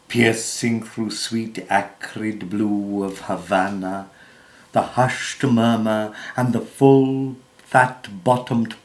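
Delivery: measured, declamatory verse reading with swells on key phrases; theatrical poetry reading, pausing between phrases; poem recitation. Acted. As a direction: recite it like stage verse, leaning into the stressed words.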